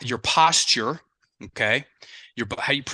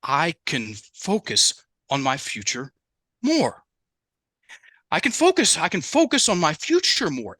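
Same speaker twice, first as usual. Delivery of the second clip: a hint of a small child, higher on "more" and "focus"; childlike; 3 semitones higher than usual. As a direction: say "I can focus" like a timid four-year-old. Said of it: "it sounded like he was four".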